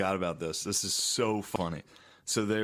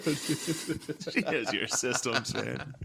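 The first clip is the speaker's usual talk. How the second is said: drawn out, laughing mockery; a slow, giggling tease; slow teasing repeat through laughter; 3 semitones higher, slower than usual. Shown as a demonstration. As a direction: stretch it slowly while laughing at him.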